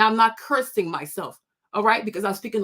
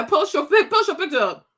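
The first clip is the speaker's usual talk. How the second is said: high, giggling dare; laughing taunt; 5 semitones higher, 3 dB louder than usual. Real, not acted. Vlogger laughing as she dares the commenter to post a picture.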